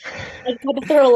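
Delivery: giggling from nerves; nervous laugh. Real, not acted. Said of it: "It was a nervous laugh".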